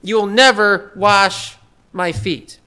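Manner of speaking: never stretched out slowly; slow, deliberate never; stress on never. Retold or imitated. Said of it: "He says this in the strongest possible way".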